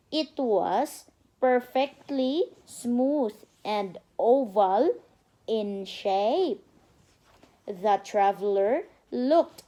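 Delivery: slow, careful storybook reading for a little one; reading to a child. Acted. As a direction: read it out like a bedtime story. Mother reads storybook to child.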